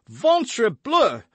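high-pitched exasperated French oath; loud cry. A narrator's reading. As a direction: cut in with a loud, high outburst. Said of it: "cried D'Artagnan".

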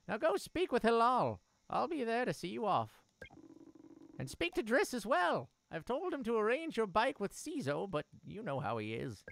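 lightly voiced caring mother. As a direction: speak as a gentle mother.

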